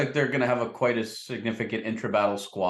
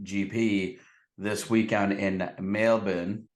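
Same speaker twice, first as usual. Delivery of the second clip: mock Australian twang on Melbourne; lightly put-on Australian accent; Aussie accent; slower than usual. Host trying an Aussie accent on Melbourne. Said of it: "wasn't too bad of an accent there".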